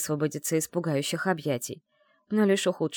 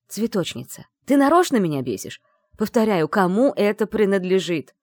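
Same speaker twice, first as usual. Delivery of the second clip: irritated; 2 semitones higher, 5 dB louder than usual. Acted. Isaev irritated, repeating demand.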